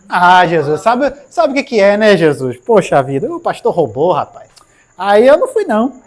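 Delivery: whiny loud excuse to Jesus; excuse-making sinner. Acted. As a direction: plead like a caught kid blaming the pastor.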